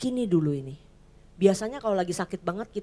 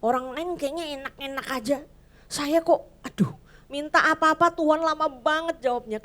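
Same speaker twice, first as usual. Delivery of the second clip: higher, pleading complaint; whiny complaint to God; 5 semitones higher, 4 dB louder than usual. Retold or imitated. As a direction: moan to God like a worn-out believer. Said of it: "Orang-orang yang ngerasa". (mengeluh merengek kepada Tuhan)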